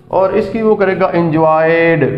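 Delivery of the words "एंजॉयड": एंजॉयड gliding into a final D; smooth D ending. Shown as a demonstration. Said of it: "smoothly बोलेगा एंजॉयड". (एंजॉयड में smooth ड की आवाज़)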